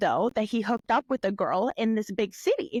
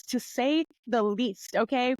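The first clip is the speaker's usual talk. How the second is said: ordinary talk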